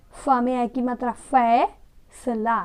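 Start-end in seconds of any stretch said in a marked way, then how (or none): 1.1-2.6 फैसला very slow as fai-sa-la; फैसला slowly with f; slow model reading. Shown as a demonstration. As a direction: sound out फैसला syllable by syllable. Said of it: "फैसला ऐसे पढ़ेंगे".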